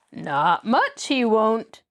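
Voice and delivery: slow, sneering reply. Acted. Tom sneering at the captive Nancy, slow. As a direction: drag it out with contempt. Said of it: "Tom sneered".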